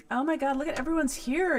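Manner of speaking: pleasantly startled, voice lifting; delighted surprise. Real, not acted. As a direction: greet an unexpected crowd, fast and thrilled. Notices viewers have joined her stream.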